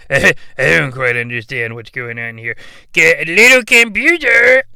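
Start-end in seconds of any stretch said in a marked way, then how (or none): 2.9-4.6 louder, higher summons; calling out. Acted. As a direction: shout for the computer. Calling out to the device.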